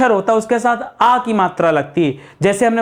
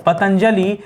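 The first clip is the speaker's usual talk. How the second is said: पतंजलि stretched out very slowly; slow spelling; much slower than usual. Shown as a demonstration. Teacher showing students how to write Patanjali. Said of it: "तो क्या लिखते हैं आप दोस्तों?".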